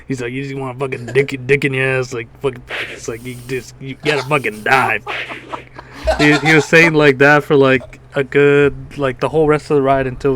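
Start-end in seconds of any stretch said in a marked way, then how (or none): 0.3-5.0 robot voice. Retold or imitated. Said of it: "it's gonna be all robot voice".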